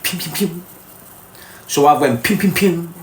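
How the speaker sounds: mock running sound "pim, pim, pim" said quick and light; running noise. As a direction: make a playful sound of darting away. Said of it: "When I'm on my toes".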